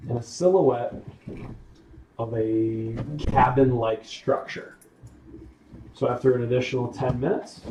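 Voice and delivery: slow, measured scene setting; game master narration. Acted. Game master describes smoke and a cabin to players, slow narration. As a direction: describe it slowly with pauses between phrases.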